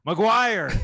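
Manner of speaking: dad yelling. Retold or imitated. Son imitates his sports-fan dad listening in, yelling. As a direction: imitate dad hollering at the radio. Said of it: "And he was yelling".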